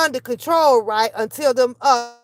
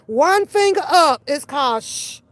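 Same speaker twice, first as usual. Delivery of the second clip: scolding hush. Pretend. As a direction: hush someone like a fed-up parent. Imagined scolding of the girl.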